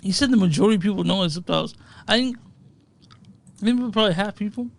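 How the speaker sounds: chewing ice while talking; ice in mouth. Real, not acted. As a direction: talk around crunching ice. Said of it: "Sorry, I'm chewing ice".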